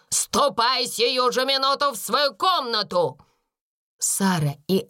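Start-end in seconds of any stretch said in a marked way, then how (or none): 0.1-3.2 higher-pitched, indignant order; acted scolding cry, not full volume; angry shout. A narrator's reading. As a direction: send the girl off angrily. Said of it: "закричала она".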